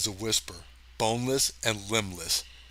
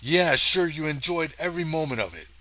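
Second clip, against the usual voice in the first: higher, quicker sarcastic jab; sarcastic retort; 4 semitones higher than usual. Acted. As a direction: toss it off with dry sarcasm. Retakes line, higher and faster.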